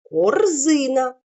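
drawn out, syllable by syllable; slow syllables. Shown as a demonstration. Teacher dividing the word for first graders. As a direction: split it into syllables slowly. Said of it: "ми можемо перенести корзина".

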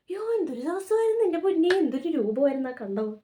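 high, loud gasp of remembered dread; shocked exclamation. Retold or imitated. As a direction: cry out as if reliving the fright. Recalling the frightening night, exclaiming. (ഞെട്ടലോടെ ഉറക്കെ പറയുന്നു)

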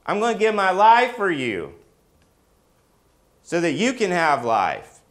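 preacher crying out as God with rising fervor; soaring voicing of God. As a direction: swell it into a passionate declaration. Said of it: "he says".

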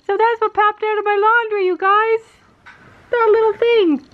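high amused laughing voice; laughing delight. Real, not acted. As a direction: giggle it out, amused. Laughing at dog in laundry.

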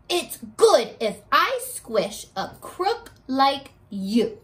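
slow, lightly voiced stubborn kid; kid's argument. Kid telling the ant why ants are crooks, slow and stubborn. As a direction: argue it slowly like a stubborn child. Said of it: "The kid says".

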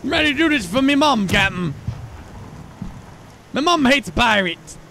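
put-on British accent. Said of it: "I'm gonna try to do a British accent".

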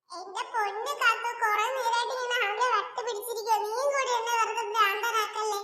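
laughing exasperation. Acted. Exasperated brother laughs at sister.

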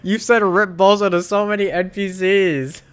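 high, loud, laughing as you talk. Real, not acted. Streamer laughing at himself for taunting NPCs, high and loud. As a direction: crack up at your own joke.

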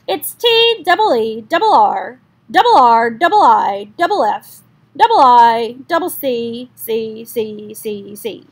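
loud stammering goose voice; stuttering gander. Acted. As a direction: stutter through the spelling.

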